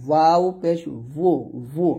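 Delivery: slow ওয়াও পেশ, ভু without lips touching; lips-apart waw. Shown as a demonstration. Teacher tells students not to join lips, open ভু. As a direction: keep a gap between rounded lips on ভু. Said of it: "দুইটা ঠোঁট না মিলে উচ্চারণ করেন".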